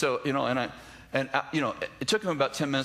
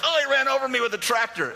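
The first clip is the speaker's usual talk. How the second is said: 1 mock complaint; 12 semitones higher, 5 dB louder than usual. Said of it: "They're like".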